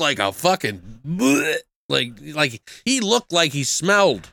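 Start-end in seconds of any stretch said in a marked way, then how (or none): 1.1-1.6 imitated drunk "bleh"; drunken blurt. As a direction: blurt a slurred drunken noise. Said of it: "really good performance for drunk".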